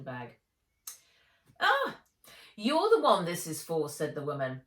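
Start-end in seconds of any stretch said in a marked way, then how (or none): 1.6-3.9 high, loud exclamation of recognition; exclaiming. A narrator's reading. Counter woman to the parcel's owner, exclaiming. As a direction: pipe up loudly on realising.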